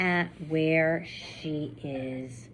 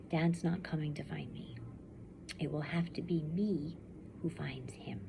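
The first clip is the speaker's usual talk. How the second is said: whispered resolve; 7 dB quieter than usual. A narrator's reading. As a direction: say it to yourself in a whisper. Girl's lonely resolve.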